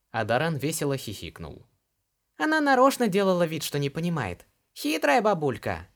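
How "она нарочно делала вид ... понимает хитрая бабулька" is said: high, louder, cheeky lad; cheeky boy voice. A narrator's reading. Daran to Ilar, high and cheeky. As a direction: snicker it out like a young scamp.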